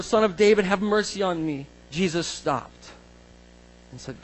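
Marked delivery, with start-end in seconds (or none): 0.0-1.7 raised, higher cry; shouted plea. Acted. Blind beggar will not be silenced, calling out. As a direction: read it out with a mild shout. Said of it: "He shouted all the more".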